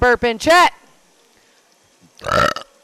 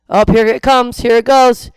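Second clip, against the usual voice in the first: loud words pushed out on a burp; 10 dB louder than usual. Real, not acted. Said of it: "Here comes another burp".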